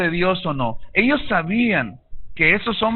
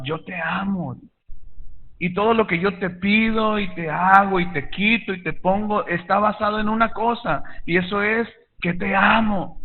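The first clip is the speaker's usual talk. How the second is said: tender father. Retold or imitated. Father tells son he loves him.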